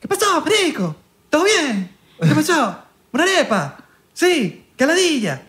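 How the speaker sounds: very high, sing-song mock Venezuelan; exaggerated Venezuelan accent. Shown as a demonstration. Showing the others how Venezuelans talk, exaggerated Venezuelan accent. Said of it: "yo sé hablar venezolano, es fácil, mira".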